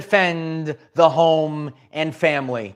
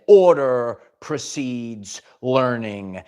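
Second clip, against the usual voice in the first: strict principal; 5 semitones lower, much slower than usual. Retold or imitated. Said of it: "And she said".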